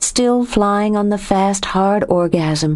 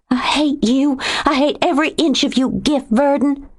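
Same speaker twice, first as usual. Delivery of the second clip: high, fast furious yelling; 8 semitones higher than usual. A narrator's reading. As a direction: spit it at him. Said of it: "Furious now".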